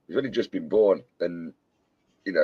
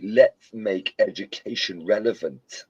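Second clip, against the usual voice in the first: Ali G impression; slower than usual. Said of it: "just put it like Ali G".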